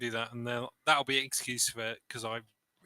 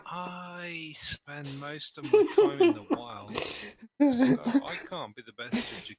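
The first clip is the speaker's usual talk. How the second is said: character voice; 6 semitones higher, 3 dB louder than usual. Acted. In-character speech to NPCs.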